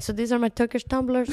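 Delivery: light imitation of a Turkish accent. Retelling a coworker showing off his pigeons, in a Turkish accent. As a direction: put on a mild Turkish accent. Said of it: "Do it, do it, the accent".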